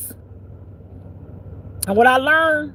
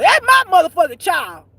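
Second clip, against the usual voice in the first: put-on higher, louder devil claiming his child; proud devil; 6 semitones higher, 5 dB louder than usual. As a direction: crow it like the devil, pitched up and loud. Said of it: "That's what the devil say".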